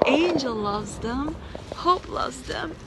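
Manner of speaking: ordinary delivery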